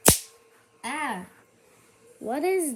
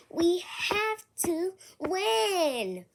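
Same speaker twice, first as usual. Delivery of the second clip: whisper; 6 semitones higher, slower than usual. Real, not acted. Team rallying, whispered urgently.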